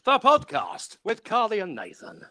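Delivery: big hammed-up show intro; X Factor announcer style. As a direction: stretch it out like an X Factor voiceover. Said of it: "give you a bit of a X Factor style".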